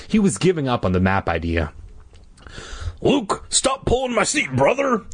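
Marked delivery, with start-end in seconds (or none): 3.0-5.0 high-pitched mock irritation; snapping. A narrator's reading. Dad to son pulling his seat, snapping. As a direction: scold the kid, pitched up. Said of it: "he snapped".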